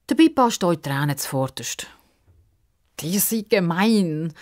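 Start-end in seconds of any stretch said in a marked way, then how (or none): 3.0-4.3 put-on hurt girl. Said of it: "ruft sie".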